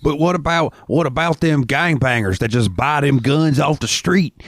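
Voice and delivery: high, slow put-on redneck voice; hammed-up redneck protest; mock hick objection. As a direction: whine it like a southern gun nut. Mocking gun rights objection.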